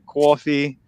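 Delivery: Coffee said cawfee; Boston coffee, cawfee; Boston accent. Shown as a demonstration. Host showing how he says Coffee. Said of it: "how I pronounce things".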